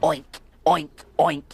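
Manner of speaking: put-on playful loud pig oinks for the kids; pig oinking. Telling children what the pig says, playful loud oinks. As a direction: oink it out like a cheeky piglet. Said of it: "what do you think we heard it say".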